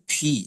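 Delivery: ফি with P released on a light puff through both lips; aspirated P. Shown as a demonstration. Teacher showing the letter's sound, aspirated P. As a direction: say ফি letting air out softly between the lips. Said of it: "দুই ঠোঁট হালকা করে বাতাস ছেড়ে বলতে হবে".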